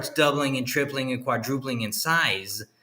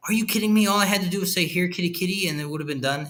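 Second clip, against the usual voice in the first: incredulous outburst; 6 semitones higher, faster than usual. Retold or imitated. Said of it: "And Glider's like".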